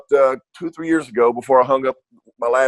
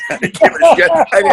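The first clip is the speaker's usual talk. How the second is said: laughing it off; 6 dB louder than usual. Real, not acted. Laughing to the interviewer about old rivals. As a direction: say it through a laugh, carefree.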